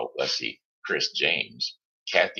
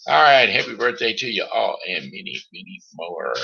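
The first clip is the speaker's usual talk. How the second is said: excited host wrap-up; 5 semitones higher, 7 dB louder than usual. Acted. Host wrapping up birthday greetings.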